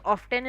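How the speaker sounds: "often" with the T pronounced; sounded T. Shown as a demonstration. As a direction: say "often" as "off-ten". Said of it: "is also accepted pronunciation".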